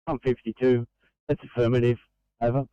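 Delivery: tinny radio reply; thin voice through a handset; over walkie talkie. Real, not acted.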